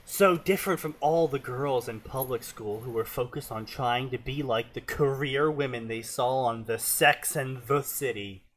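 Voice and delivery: put-on narrating in a Southern accent; Southern twang. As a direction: read the tale with Southern twang. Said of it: "I can only do full Southern twang".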